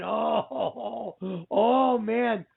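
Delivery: mildly re-enacted freak-out with drawn-out words. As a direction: replay your amazed reaction to the film, stretching the "oh"s. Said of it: "just freaking out, going".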